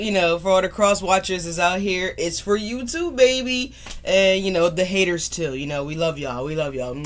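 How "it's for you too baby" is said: flirty dedication. Real, not acted. Affectionate dedication to viewers.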